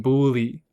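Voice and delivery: "bully" said with a hard P sound, as puli; mock the Ohio friend's "bully" with a P; imitating the friend's "bully" as puli. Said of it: "make fun of him for saying".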